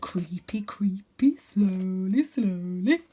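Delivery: whispered creeping chant; hushed sing-song whisper; muttering. A narrator's reading. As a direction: mutter under breath while climbing.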